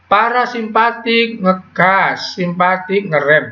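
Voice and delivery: slow, drawn-out recital of a rule; mock rote memorizing. Shown as a demonstration. Teacher showing students how not to memorize, mock rote recital. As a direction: recite it slowly, like something learned by rote. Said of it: "nggak boleh menghafalkan begini".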